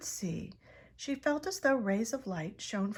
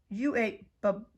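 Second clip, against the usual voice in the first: stuttered disbelief; 9 dB louder, slower than usual. A narrator's reading. A young bat stunned by her story, stuttering. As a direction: trip over the word in shock. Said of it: "stuttered one".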